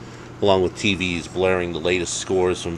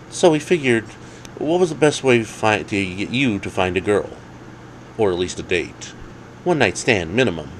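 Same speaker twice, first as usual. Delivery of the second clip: higher, eager scheming friend; Alex's voice; 4 semitones higher than usual. Acted. Alex explaining the plan to Dave, higher eager voice.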